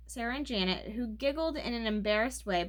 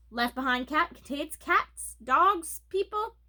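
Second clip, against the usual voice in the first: louder, higher ad-announcer delivery; TV commercial pitch; 5 semitones higher, 4 dB louder than usual. A narrator's reading. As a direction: sell it like a cat food commercial. Ramona's commercial-style book report.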